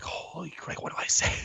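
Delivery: breathless whispered panic to himself; mock panic, whispered to no one; panicked whisper. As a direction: hiss it under your breath, caught out. Panicked inner thought, his turn.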